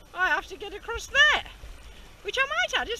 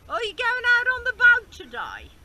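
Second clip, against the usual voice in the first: broad Birmingham accent, raised and loud; Brummie accent; 7 semitones higher, 9 dB louder than usual. Shown as a demonstration. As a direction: put on a thick Brummie accent. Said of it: "demonstrate my Brummie accent".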